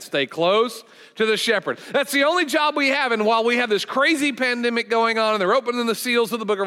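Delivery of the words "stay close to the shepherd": slow, firm congregational refrain on "Stay close to the shepherd". Shown as a demonstration. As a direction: lead the church in saying "Stay close to the shepherd" firmly. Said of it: "Everybody say that".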